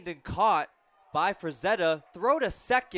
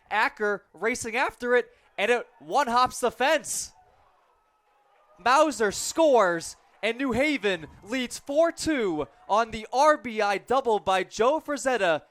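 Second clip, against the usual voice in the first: loud, higher, rushing call of a double; excited play-by-play; 6 semitones higher, 7 dB louder than usual. Real, not acted. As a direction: lift the voice as the runner scores. Double, run scores, call rises.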